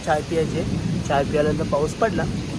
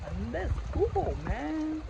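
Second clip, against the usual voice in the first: hype; 11 semitones higher, 5 dB quieter, much slower than usual. Real, not acted. Hyping up making Maggi.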